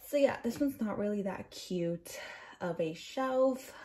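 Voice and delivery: breathless after wrestling the camera; out of breath. Real, not acted. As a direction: talk while catching your breath. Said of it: "sorry if I'm out of breath".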